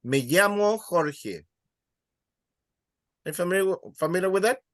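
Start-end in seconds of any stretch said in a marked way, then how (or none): 0.0-1.4 Spanish phrase. Shown as a demonstration. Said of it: "would you be familiar with this".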